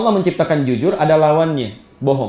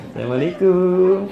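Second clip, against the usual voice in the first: slow, drawn-out sweet salaam; long, gliding friendly greeting; smiling greeting; slower than usual. Pretend. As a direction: greet as if through a smile. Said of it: "Anda senyum".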